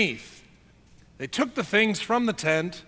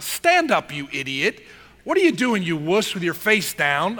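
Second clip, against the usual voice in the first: mock stern rebuke. Preacher voices God telling off face-down Joshua, stern rebuke. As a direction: scold him, lightly acted.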